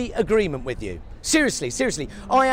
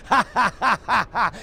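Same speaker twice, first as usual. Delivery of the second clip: a jeering mock laugh; mocking nasty laugh. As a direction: sneer out a laugh. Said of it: "edgy prick".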